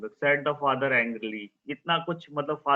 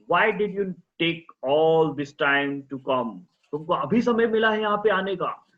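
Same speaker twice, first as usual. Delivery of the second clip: loud, higher angry demand; angry yell; 4 semitones higher, 5 dB louder, slower than usual. Acted. Father yelling at the late surgeon, angry. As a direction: shout at the late doctor. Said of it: "the father yelled".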